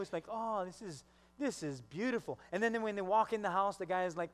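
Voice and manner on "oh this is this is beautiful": acting understated and cool; playing it cool. Husband hiding his joy at the house, playing it cool. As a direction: hold the delight back, slightly softer. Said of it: "But they're just playing it cool".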